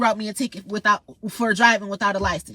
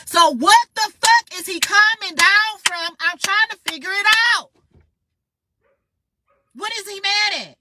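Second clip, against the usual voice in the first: exasperated disbelief; 9 semitones higher, 3 dB louder than usual. Real, not acted. Exasperated rant at court.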